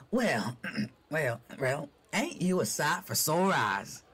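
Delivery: slow gravelly drawl, rasped out; slow rough cowboy rasp. Acted. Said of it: "A gravelly voice stops me dead".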